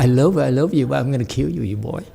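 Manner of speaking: mock sweetness masking a threat; sweet menacing bodhisattva. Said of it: "Equal enlightened Bodhisattva".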